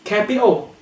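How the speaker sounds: "Capital" as "capi'o"; glottal T. Shown as a demonstration. Teacher giving an example, "Capital" with a glottal stop. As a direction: drop the T of "Capital" into the throat. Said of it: "glottal T".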